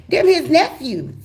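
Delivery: put-on high, slow young girl. The girlfriend asking the wife, high and slow. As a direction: ask it like a confused teenager. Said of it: "girlfriend answers".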